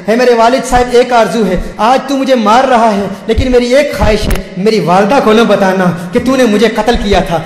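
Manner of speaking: a touch of anguished entreaty; pleading daughter. Retold or imitated. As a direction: lightly voice a daughter's last appeal. Doomed daughter's last plea to father.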